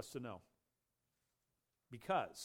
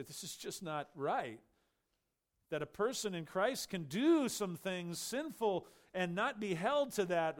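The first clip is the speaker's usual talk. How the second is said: objector's complaint, building higher and louder; imitated protest; 4 semitones higher, 5 dB louder than usual. Preacher imitating people who say it's not fair, rising protest. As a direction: voice an indignant objection, pushing up in pitch and volume. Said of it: "some people would probably cry out".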